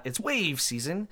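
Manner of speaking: hyped rally announcer voice on wave season; monster truck ad. Shown as a demonstration. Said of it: "like it's a thing, like a monster truck rally".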